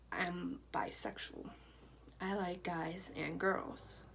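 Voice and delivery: slow, unvoiced whispered confession; nervous whisper. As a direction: breathe the words out, slow and scared.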